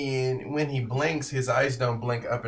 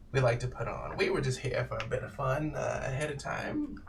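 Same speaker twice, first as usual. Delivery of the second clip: lightly voiced old man, mostly softer; creepy old man inviting; 2 semitones higher, 3 dB quieter than usual. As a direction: coax them to his little pageant.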